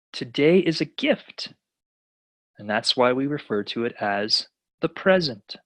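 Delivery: lightly voiced old tortoise, calm and unhurried; a hint of the wise master, calm; slow, calm master's advice to a pupil. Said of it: "the tortoise very calmly looks at him and says".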